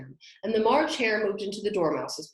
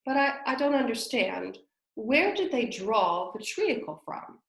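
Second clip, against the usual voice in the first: cautious; 4 semitones higher than usual. Acted. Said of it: "very cautiously".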